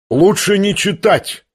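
high, slow exclamation; exclaiming with unease. A narrator's reading. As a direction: urge it suddenly, uneasily. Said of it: "воскликнул вдруг Евгений Павлович".

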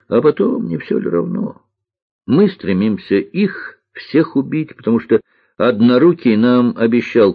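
lightly voiced boy, earnest and emphatic; маленький лётчик. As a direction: explain it like a convinced young pilot. Маленький лётчик оправдывает войну. (убеждённый мальчишка-лётчик)

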